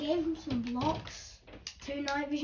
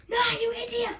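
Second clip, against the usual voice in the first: angry yell; 7 semitones higher than usual. Real, not acted. Friend misuses item, yells.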